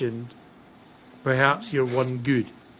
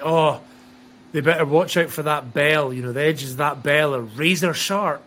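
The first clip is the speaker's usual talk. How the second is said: louder, urgent commentator-style warning; mock warning; 5 dB louder than usual. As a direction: hype up the danger, imitating a commentator. Quoting a match commentator's warning.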